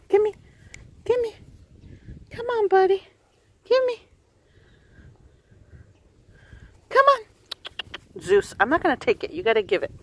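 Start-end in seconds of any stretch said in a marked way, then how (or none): 0.1-8.2 high dog talk. Real, not acted. Owner coaxing Zeus to drop the ball, high sing-song pleading. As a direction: sweet-talk the dog into giving it up.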